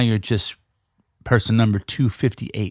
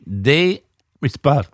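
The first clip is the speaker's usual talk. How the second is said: something caught in the throat; choking on something mid-word; much slower than usual. Real, not acted. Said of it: "something flew in my throat".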